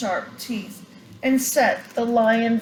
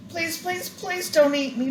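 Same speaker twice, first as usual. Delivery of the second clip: begging; 8 semitones higher than usual. A narrator's reading. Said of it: "begged the little mouse".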